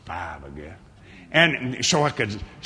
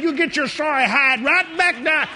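commanding rebuke; 11 semitones higher than usual. Retold or imitated. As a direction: order him down with full force. Preacher retells driving out the devil.

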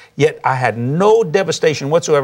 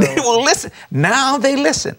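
laughing; 10 semitones higher than usual. Real, not acted. Laughing punchline to host.

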